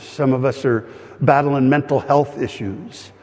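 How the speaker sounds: pastor leading the church in earnest prayer; pastor's prayer. Acted. Leads a closing prayer.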